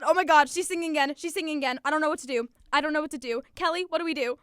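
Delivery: high, loud, hammed-up panic; mock-panicked friend yelling down the phone; panicked shout. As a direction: shout like a friend who has no idea what to do. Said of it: "it sounded something like".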